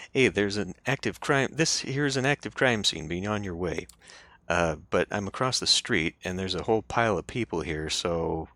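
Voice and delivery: put-on Brooklyn accent. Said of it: "yells in a thick Brooklyn accent".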